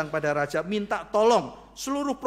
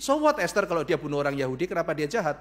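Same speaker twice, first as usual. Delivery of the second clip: dismissive; faster than usual. Acted. King shrugs off Esther's plea.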